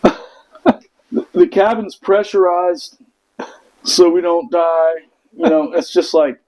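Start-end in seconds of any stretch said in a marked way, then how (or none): 0.0-4.9 slow, half-whispered announcement; deadpan pilot. Retold or imitated. Air Force pilot explaining pressurization to the Marines, slow and shaken. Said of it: "He just goes".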